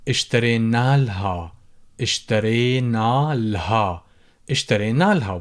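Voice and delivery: اشترينا لها without the alif; shortened form. Shown as a demonstration. Teacher demos the shortened spoken form. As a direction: drop the alif in إلها. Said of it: "shorten the pronunciation".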